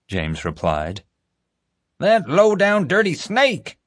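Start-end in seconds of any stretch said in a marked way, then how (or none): 2.0-3.8 very high, slow indignant outburst; outraged exclamation. A narrator's reading. Father hears the culprit's name, outraged exclamation. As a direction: spit out the insult, incensed. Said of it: "loud enough that Hoenikker shot him a warning glance".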